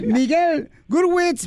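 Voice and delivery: Miguel Gurwitz stretched slowly and high; drawn-out announcer name. Acted.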